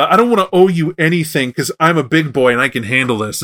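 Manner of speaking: lightly voiced stubborn little kid; childlike worm. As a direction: insist like a child playing the big boy. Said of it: "childlike Worm".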